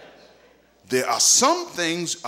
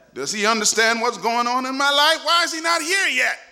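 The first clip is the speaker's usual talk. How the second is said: questions climbing steadily higher; pleading doubt; 7 semitones higher than usual. Acted. Believer wondering if Jesus forgot them, mounting desperate questions. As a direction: build to a high, exasperated plea.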